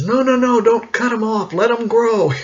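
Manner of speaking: high, loud protesting barber; insistent barber. Retold or imitated. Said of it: "And my barber says".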